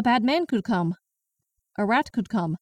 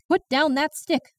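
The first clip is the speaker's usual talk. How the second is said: sharp command; 6 semitones higher than usual. Acted. Daughter commanding grandma.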